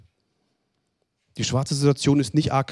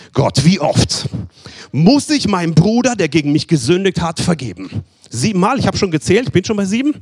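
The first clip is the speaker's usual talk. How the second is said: higher and louder, a keen disciple counting; eager believer asking God; 4 semitones higher, 3 dB louder than usual. Retold or imitated. Disciple asking God how often to forgive, higher and louder. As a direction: plead it up like proud Peter.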